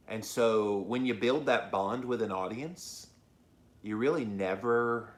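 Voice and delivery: holding back tears, throat tight; choking up. Real, not acted. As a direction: voice catching with emotion. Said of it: "I'm choking up even now".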